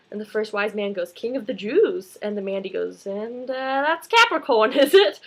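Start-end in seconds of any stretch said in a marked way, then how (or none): 1.1-2.2 lightly voiced British wise man; a touch of British, adding a title; British accent. First wise man chiming in, light British accent. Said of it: "in a British accent". 3.1-5.2 high, loud comic British woman; British accent. Retold or imitated. Mandy querying the wise men, high British accent. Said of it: "in a British accent".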